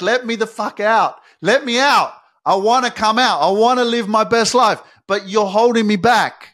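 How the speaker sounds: high, loud desperate plea to be let out; trapped soul screaming. Pretend. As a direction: cry out like a soul locked inside. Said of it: "It's screaming at you".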